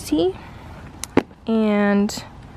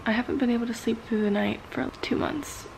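whispering; 6 dB quieter than usual. Real, not acted. Sleepless, talking quietly at dawn.

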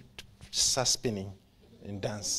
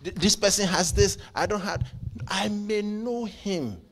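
raised, high, loud preacher's cry; full-force preaching; 9 semitones higher, 8 dB louder than usual. Real, not acted. Preacher urging the congregation to know him, full-force preaching.

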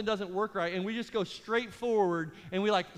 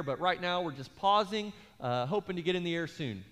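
imitating a sorry pilot on the intercom; apologetic pilot. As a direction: sound like an apologetic airline captain. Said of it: "being apologetic the whole time".

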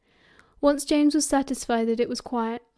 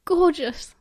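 higher, swooning admiration; gushing; 5 semitones higher, 4 dB louder than usual. A narrator's reading. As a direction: gush over it, pitch lifted. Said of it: "she gushed".

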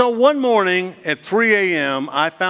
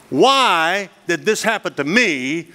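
self-pity; 2 semitones higher, slower than usual. Retold or imitated. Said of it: "you can either do this".

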